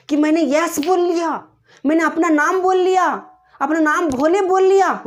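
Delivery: high, loud triumphant boast; proud exclamation. Retold or imitated. Girl proud she managed to say yes, triumphant. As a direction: exult in a first small victory. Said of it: "अपने आप में गर्व हुआ".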